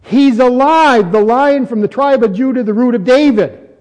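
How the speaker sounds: ringing announcement from an elder; elder's proclamation. Acted. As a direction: proclaim it triumphantly, drawing out the first words. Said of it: "elder says".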